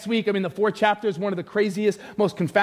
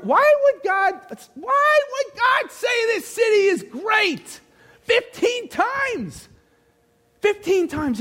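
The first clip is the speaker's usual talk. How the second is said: very high, drawn-out shout; high, slow rhetorical outburst; incredulous preaching cry; 13 semitones higher, much slower than usual. Real, not acted. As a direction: cry out the question, stretching each word. Preacher cries rhetorical question.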